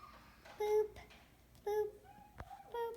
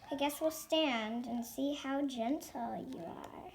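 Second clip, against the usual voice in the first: whispered aside to herself; 6 semitones lower, 6 dB quieter than usual. Real, not acted. Kid explaining the game, whispered. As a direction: say it under the breath.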